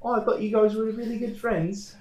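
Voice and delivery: high mock mom voice, way up in pitch; imitating his mom. Son mimics his mom praising the sketch, high mock voice. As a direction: squeak it out like his doting mom. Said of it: "She's like, Oh".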